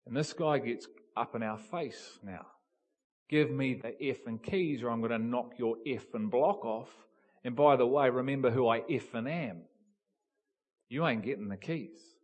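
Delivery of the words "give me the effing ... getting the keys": a retold drunken threat, louder in the middle. Drunk area manager in their faces, mild retold threat. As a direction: threaten them like the drunk boss, with a mild edge.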